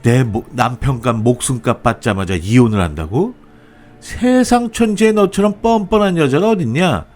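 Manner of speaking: high-pitched scolding mother-in-law; acted shrewish rant at a daughter-in-law; ranting outrage. A narrator's reading. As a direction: start indignant, then climb high into a tirade. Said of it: "이렇게 악다구니를 쓰는데".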